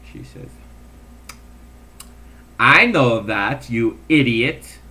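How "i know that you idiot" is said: lightly voiced blustery Skipper; a hint of the Skipper barking back; mock Skipper bluster; Skipper from Gilligan's Island. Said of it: "I was like the skipper on Gilligan's Island".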